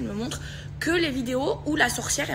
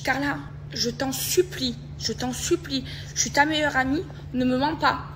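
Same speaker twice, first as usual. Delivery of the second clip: raised, insistent begging; retold pleading; 4 semitones higher, 3 dB louder than usual. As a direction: re-enact begging a best friend for the truth. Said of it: "Je commence à pleurer au téléphone". (supplication rejouée)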